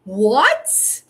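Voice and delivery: retelling her alarmed demand to the caller, loud. Retold or imitated. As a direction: demand to know who this stranger is. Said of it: "And I went".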